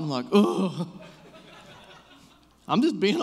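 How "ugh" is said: exasperated groan, played for laughs; hateful ugh. Driver to passenger over a parking spot, hateful groan. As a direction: groan in mock irritation. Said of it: "I got hateful in the car".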